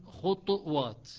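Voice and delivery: خطوات said slowly as khutwat with a still, echoing ط; Shuba pronunciation. Shown as a demonstration. Teacher isolates Shuba's خطوات, slowly. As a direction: say خطوات with u on خ and a stopped ط. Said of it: "بضم الخاء وتسكين الطاء".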